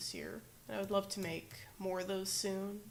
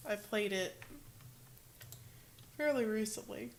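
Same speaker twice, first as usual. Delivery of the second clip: hiccups. Real, not acted. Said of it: "Sorry, I'm hiccuping".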